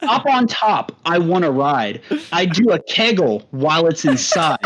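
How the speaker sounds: lightly put-on, measured white-guy recital; whitest voice. Shown as a demonstration. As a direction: read rap lyrics out carefully, evenly spaced. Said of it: "read it in the whitest voice that you got".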